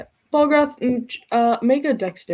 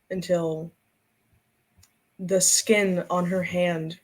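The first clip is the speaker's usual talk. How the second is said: slow, measured storytelling with long pauses; unhurried fantasy narrator; game master narration; slower than usual. Acted. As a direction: narrate it slowly, letting each phrase land.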